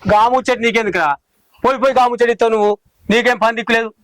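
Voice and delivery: testy brush-off; mildly annoyed rebuff; irritated. Acted. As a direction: tell a nosy person off, irritably. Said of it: "ఎందుకే గట్లా చిరాకు".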